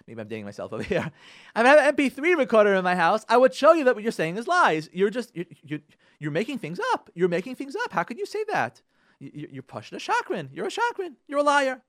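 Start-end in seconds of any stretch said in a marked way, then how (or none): 1.5-11.8 high, loud quarrelling spouse; heated accusation. Acted. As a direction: act out an argument, hurling accusations at your partner. Acted husband in a big fight.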